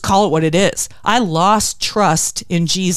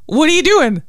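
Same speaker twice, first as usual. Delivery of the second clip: higher-pitched mock exasperation; quoted cartoon scolding; 8 semitones higher, 3 dB louder than usual. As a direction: quote the cartoon boss in playful outrage. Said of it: "We quote that saying".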